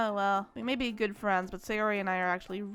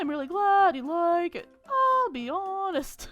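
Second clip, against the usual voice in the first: put-on gentle timid young woman, a little higher; shy girl voice; 8 semitones higher, 5 dB louder, slower than usual. Shy girl explains poem.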